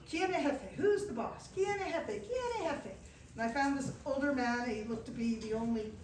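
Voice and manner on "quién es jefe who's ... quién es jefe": smiling calm. Retold or imitated. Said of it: "smiling, calm".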